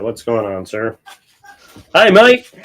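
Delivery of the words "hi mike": high, loud hillbilly-Australian put-on greeting; hillbilly Australian accent. Greeting Colonel Cowboy back, in a mock hillbilly Australian accent. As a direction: play an Australian hillbilly, pitched way up. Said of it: "you sounded a little more like a hillbilly from Australia".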